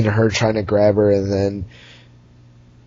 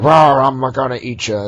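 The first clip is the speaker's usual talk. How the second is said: mock wolf growl; 2 semitones higher than usual. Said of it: "he's like".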